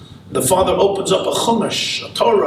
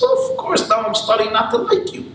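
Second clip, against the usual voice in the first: higher and quick, feigned offense; offended mock indignation; 5 semitones higher, faster than usual. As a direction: put him in his place, half joking. Israeli gets offended at holier-than-thou.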